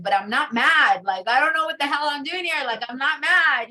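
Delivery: retold teen protest, a bit heated; indignant protest. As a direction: insist you're not mad while sounding mad. Protesting at anger management.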